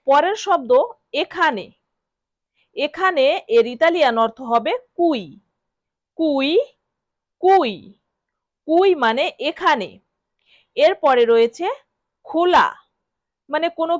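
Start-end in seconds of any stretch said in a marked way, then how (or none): 6.2-7.7 কুই as KOO-ee, each one set apart; model pronunciation. Shown as a demonstration. Teacher drills learners on কুই, careful model pronunciation. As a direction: sound out "কুই" as koo-ee for repeating. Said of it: "বারবার শব্দটি উচ্চারণ করব".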